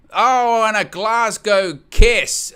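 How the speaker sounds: high, loud, stretched-out shout; explosive big-moment call. Real, not acted. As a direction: erupt as the headbutt lands. Erupts at sudden headbutt.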